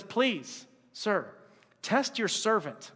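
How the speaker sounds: soft, slow, measured deference; polite pleading. Acted. Daniel humbly asks the guard, politely pleading. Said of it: "It's just please and thank you".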